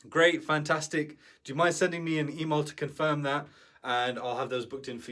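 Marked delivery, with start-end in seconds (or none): 0.1-3.5 friendly, polite. Shown as a demonstration. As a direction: sound pleased and easygoing with the client. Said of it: "You just wanna say to them".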